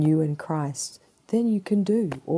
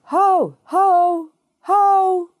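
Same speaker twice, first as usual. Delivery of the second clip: repeated high, loud hailing shouts; yelled call; 13 semitones higher, 7 dB louder, much slower than usual. Acted. Preacher as Jesus getting the multitude's attention, yelling. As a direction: holler each one out to a far-off crowd. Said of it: "And he yelled out".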